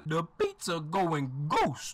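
spooky ghost voice. Acted. Worker explains invisible pizza.

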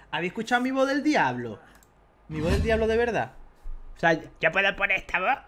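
excited. Real, not acted. Streamer announces their devil voice to viewers, excited. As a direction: raise the voice, eager to show it off.

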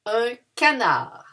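"canard" ending open on the A; model word. Shown as a demonstration. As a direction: announce "canard" with no D. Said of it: "here we don't pronounce the D".

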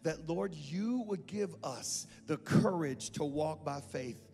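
prayer voice building in fervour; earnest prayer. Acted. Pastor praying over the congregation, earnest and rising. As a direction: pray over them with rising conviction.

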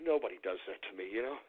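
very soft, low threat; hushed, brooding warning; quiet menace. Real, not acted. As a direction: say it low under your breath. Brooding threat after sighing.

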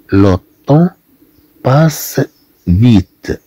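le temps passe vite read clearly; French sentence demo. Shown as a demonstration. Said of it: "نقول مثلًا". (قراءة le temps passe vite بوضوح)

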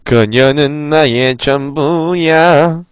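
slow, lightly voiced obsessive lover; obsessed man voice. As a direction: say it slowly, lost in obsession. Voicing the killer's line. (집착하는 남자 목소리)

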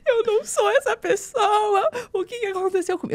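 high, drawn-out tearful wail; hammed-up weepy lament to her husband; desperate mock crying. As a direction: imitate a slow, despairing sob. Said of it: "Eu fiquei desesperada".

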